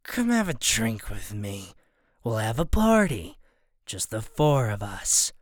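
put-on low, slow slurring drunk; town drunk. A narrator's reading. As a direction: slur the invite like a drunk. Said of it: "slurring his words".

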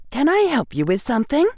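bright, quick schoolgirl; prim helpful girl, quick and high; young girl voice. Acted. Hermione voiced in story.

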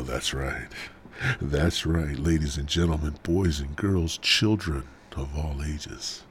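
slow, measured mock host intro; hammy podcast presenter voice; show announcer. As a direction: announce it like a ringmaster, drawn out.

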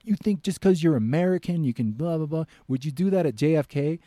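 high, loud indignant challenge; angry guard. Retold or imitated. Angry guard accuses the American traveller, loud and high. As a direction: taunt him with anger. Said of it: "He's like".

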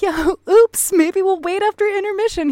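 high, loud laughing admission; sheepish laugh. Retold or imitated. Telling friends how she answered her husband, laughing sheepishly. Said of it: "And I was like".

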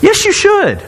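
emphatic reassurance. Retold or imitated. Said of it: "I go".

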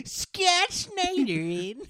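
high, slow words through laughter; cracking up mid-sentence; laughing. Real, not acted. Laughing at the idea.

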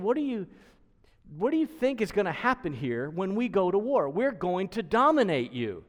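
mocking threat. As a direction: taunt them as the stronger army. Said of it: "He's mocking them".

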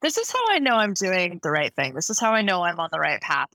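ordinary delivery

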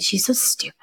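soft imitation of a muttered jab; imitating a snide remark under the breath; snarky under-breath comment. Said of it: "snarky comments under their breath".

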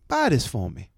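lightly voiced accented woman shopper; quick, accented repeat of her request; a hint of the woman's put-on voice; imitating woman customer. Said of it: "And she goes".

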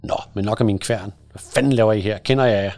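big biker's voice. Acted. Biker confronting two boys at his gate, loud and menacing. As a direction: tower over the boys and demand an answer. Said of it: "med sin dybe stemme".

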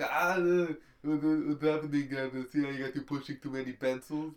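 a rough, amateur Arnold accent; bad Arnold accent. Shown as a demonstration. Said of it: "I can do a bad Arnold accent".

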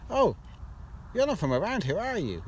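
put-on Manchester accent. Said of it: "That's the worst accent".

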